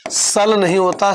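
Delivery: सल with a clipped short a; short vowel. Shown as a demonstration. Teacher mimics a student's mistake, a clipped सल. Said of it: "साल होता है".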